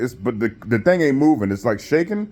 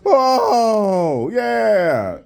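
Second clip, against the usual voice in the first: high, laughing crowd reaction, mocked; impressed crowd; 9 semitones higher than usual. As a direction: imitate a crowd oohing, half laughing. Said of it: "the crowd is like".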